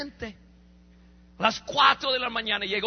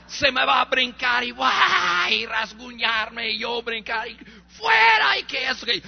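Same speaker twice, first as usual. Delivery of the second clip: louder imagined struggle, half-hammed; mock fight cry; 3 dB louder, slower than usual. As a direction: play out the brawl he expected.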